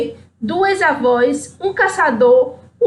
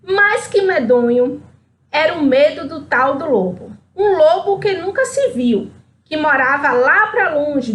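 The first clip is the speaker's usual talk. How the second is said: lively storyteller reading aloud; story narration. A narrator's reading. Reading Chapeuzinho Amarelo to listeners, lively storyteller voice. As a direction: tell it like a children's story.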